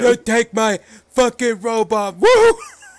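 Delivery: loud hollered yell capped with a woo. Retelling a scene where Ric Flair yells at Vince: imitating Ric Flair yelling. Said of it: "Ric Flair yelling at Ric Flair".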